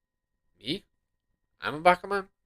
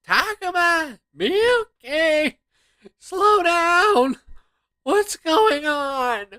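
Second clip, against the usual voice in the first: high, loud yell to friends rushing off; calling out; 13 semitones higher, 5 dB louder, much slower than usual. Acted. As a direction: shout for them to slow down. Calling after running friends.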